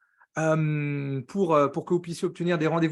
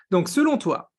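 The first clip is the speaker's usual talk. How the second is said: "selon toi" pushed out louder, then a long silence; teasing pause; 3 semitones higher, 5 dB louder than usual. Real, not acted. Host teasing his question to the live chat, suspenseful pause. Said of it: "le petit silence là pour le teasing".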